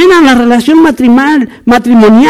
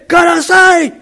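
higher-pitched shout, acted out; drill instructor shout; 4 semitones higher, slower than usual. Army instructor to a recruit caught hiding, mock shout. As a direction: call out like an instructor catching a slacker.

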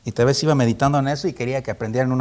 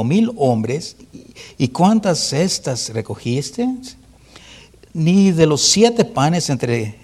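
louder, slow reading of Jesus' rebuke; fervent scripture reading; 5 dB louder, slower than usual. Acted. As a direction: proclaim each question slowly, pressing the disciples. Reads Jesus' rebuke from the gospel. (predicador lee el reproche de Jesús a sus discípulos, lento y enfático)

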